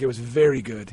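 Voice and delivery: low, lightly imitated South African accent; a hint of a South African surgeon. Surgeon praising his patient's article, South African accent. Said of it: "in his accent".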